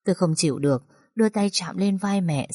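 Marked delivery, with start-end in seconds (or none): none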